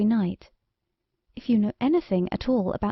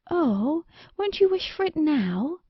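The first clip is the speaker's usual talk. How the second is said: pleading; 7 semitones higher than usual. Acted. Queen begs king to wish.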